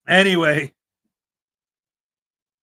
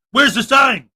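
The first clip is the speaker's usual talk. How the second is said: mock shout. Mock auditor demanding a sign.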